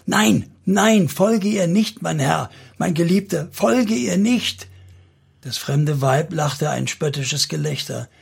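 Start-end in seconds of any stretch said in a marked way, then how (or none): 0.1-4.7 high, urgent plea; desperate pleading. A narrator's reading. Noah begs her beloved not to follow the stranger, desperate pleading. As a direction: beg him in a raised voice, stretching the last words.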